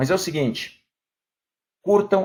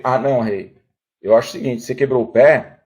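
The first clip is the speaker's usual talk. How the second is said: lower, measured and unhurried, like a patient servant; calm helper voice; 4 semitones lower than usual. Acted. Helper calmly tells the injured king to wait, low and patient. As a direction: talk the king down gently, pitched low.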